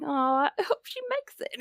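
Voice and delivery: a touch of a mock whimper; mock worried plea. Fan imitates rooting for the heroine, mock whimper. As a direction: play up worrying for the heroine, lightly. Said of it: "I'm like".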